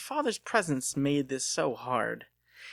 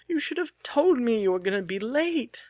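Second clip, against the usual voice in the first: much higher, louder tearful rebuke; tearful scolding; 11 semitones higher, 5 dB louder than usual. Acted. Delia scolding Lucas for being late, high tearful voice. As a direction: scold him through tears, voice pitched up. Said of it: "She broke out into tears".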